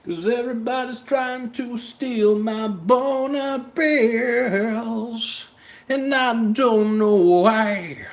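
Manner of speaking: high, slow, goofy character voice; silly put-on voice. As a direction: whine it high and drawn out like a cartoon.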